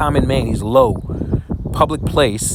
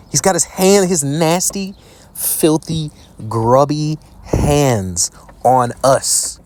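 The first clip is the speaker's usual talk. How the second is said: higher, slowed and disgusted; disgusted emphasis; 4 semitones higher, slower than usual. Real, not acted. Preacher denouncing the man on video, disgusted. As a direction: spit out each ugly word slowly.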